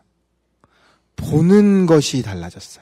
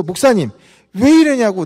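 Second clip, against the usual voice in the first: raised, indignant challenge to the pastor; angry protest; 6 semitones higher, 6 dB louder than usual. Retold or imitated. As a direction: demand it sharply, louder and higher. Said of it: "이 사람이 더 화가 난 거예요".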